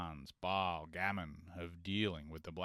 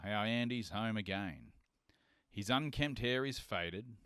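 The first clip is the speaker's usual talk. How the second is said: measured rhythmic reading of a bush ballad; poem recital. Acted. Reading Lawson's Andy's Return to listeners, rhythmic poem recital.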